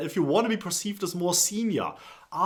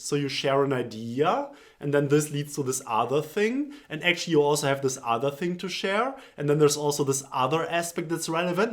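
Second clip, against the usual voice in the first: every sentence ending on a rising pitch; uptalk demo; 2 semitones lower than usual. Shown as a demonstration. Showing viewers the uptalk habit, each ending rising. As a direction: lift the end of each line like a question. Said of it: "this might look something like this".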